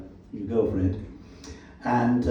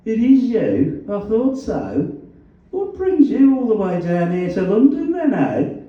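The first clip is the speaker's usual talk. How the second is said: put-on Black Country accent; 11 semitones higher, 6 dB louder than usual. A narrator's reading. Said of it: "His black country accent was as vowelish as ever".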